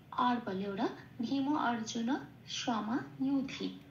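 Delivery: slow, careful Sanskrit chant; slow recitation. Shown as a demonstration. Teacher reciting the line for learners. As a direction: recite each word slowly. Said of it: "second পার্টটা হলো ভীম অর্জুন".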